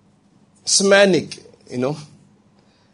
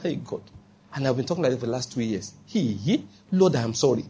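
much softer, a near-murmured plea to God; hushed repentant prayer; 4 semitones lower, 9 dB quieter than usual. Retold or imitated. A believer quietly says sorry to God, hushed and contrite. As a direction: confess it quietly, as if only God should hear.

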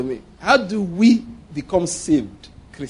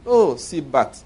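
very calm; 5 semitones lower, slower than usual. Retold or imitated. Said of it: "Very calmly".

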